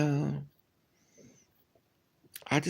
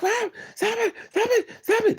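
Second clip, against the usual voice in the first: very high squeaky mock plea; mock pleading boyfriend. Mocking her boyfriend begging her to stop hitting him, squeaky high plea. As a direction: squeal it like a man getting hit.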